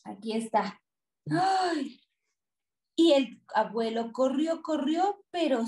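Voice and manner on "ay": short high cry of alarm; a storyteller's quick yelp of dismay; startled "ay". A narrator's reading. Narrator cries out as monster appears.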